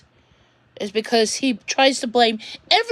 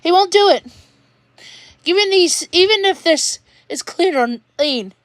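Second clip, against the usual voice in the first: upset outburst; 5 semitones higher than usual. Real, not acted. Upset rant about father.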